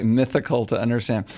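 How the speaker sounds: imitating the Irish speaker's "mythical" for difficult; echoed pronunciation. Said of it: "I like that".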